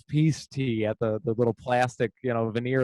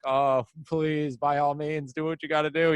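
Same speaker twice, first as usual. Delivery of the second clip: too polite. Retold or imitated. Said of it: "just being too polite, but, like, seething with rage".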